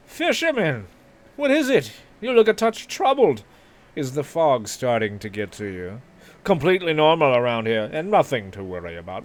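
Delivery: high, loud game-character voice with swooping pitch; theatrical concern, starting very high; concerned townsperson. Acted. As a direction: reassure a troubled fisherman in a put-on voice.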